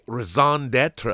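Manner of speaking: lightly put-on French accent; amateur attempt at a French accent. Shown as a demonstration. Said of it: "That's me doing a French accent".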